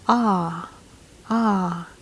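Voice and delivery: open, held ah; English O sound. Shown as a demonstration. Teacher demonstrates the English O vowel, open ah. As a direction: say ah alone as a vowel demo. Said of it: "the letter O sound in English is".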